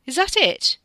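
loud, high-pitched incredulous question; disappointed demand. A narrator's reading. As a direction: demand it, let down. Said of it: "someone demanded, disappointed".

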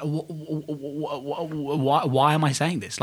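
soft stuttering start on why; retold stammer. Retelling his own gaffe to the co-host, stammering in mock dismay. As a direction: stumble over the first word, mock disbelief.

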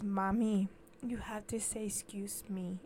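hushed, mock-polite child correcting mommy; imitating little girl. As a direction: softly scold like a polite toddler. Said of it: "and she goes".

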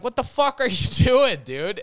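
half-laughing what-the-hell at a friend; laughing disbelief. Retold or imitated. Friends yelling at tackling kid.

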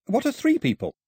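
very high-pitched, innocent question; puzzled boy. Acted. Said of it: "forehead wrinkled in puzzlement".

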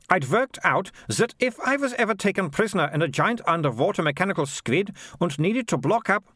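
a lightly voiced confident girl; high girl's voice, Malicia. Malicia explains her plan to Morris, lightly voiced confident girl. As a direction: pitch it up, pleased with herself.

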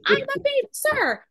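high, loud drill chant; shouted cadence. Retold or imitated. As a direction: bark it out like a platoon cadence. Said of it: "and he was going".

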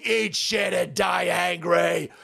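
dragged-out, shouted curse; slow shout. Real, not acted. Vlogger repeats his curse at a commie, shouting. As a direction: spit each word slowly.

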